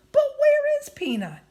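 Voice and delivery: high, loud alarmed cry; anxious shout. Acted. Anxious girl searching.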